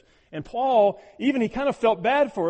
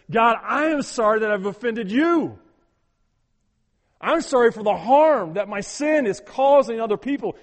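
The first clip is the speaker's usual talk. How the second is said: fervent loud prayer; 4 semitones higher, 9 dB louder than usual. Acted. Voicing a repentant prayer.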